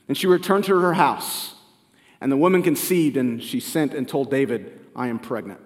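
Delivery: steady, measured Bible reading; scripture reading. Acted. Preacher reading Second Samuel aloud to the congregation, measured. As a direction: read the passage out to the congregation.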